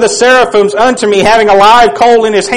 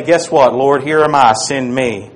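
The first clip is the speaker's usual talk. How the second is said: low, soft, reverent; hushed offering; 8 semitones lower, 5 dB quieter than usual. Acted. A believer offering himself to the Lord, hushed. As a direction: say it quietly as a vow.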